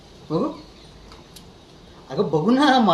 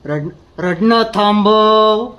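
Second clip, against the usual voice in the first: "रडणं" 천천히 힘주어 세게 끊어서; 억누른 분노로 또박또박 명령하듯; slow stern command; 4 dB louder, much slower than usual. Acted. Repeated order, louder and slow.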